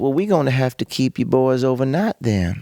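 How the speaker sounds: put-on, imitated Louisiana accent. Telling a story about being kept overnight, quoting him in a Louisiana accent impression. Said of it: "I'm gonna do my best Louisiana impression".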